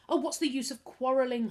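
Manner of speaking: put-on boy despairing as the family quarrels; desperate. A narrator's reading. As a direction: plead in despair. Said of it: "Harvey said desperately".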